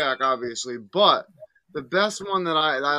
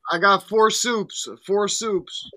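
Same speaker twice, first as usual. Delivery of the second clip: prison inmate; 6 semitones higher, 4 dB louder, slower than usual. Pretend. Inmate bit on prison phone.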